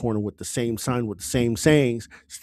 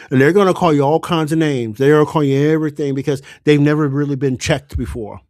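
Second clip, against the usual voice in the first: louder, rousing warning to the crowd; 6 dB louder, faster than usual. Real, not acted. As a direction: raise your voice and rally them. Rallying warning about name-calling.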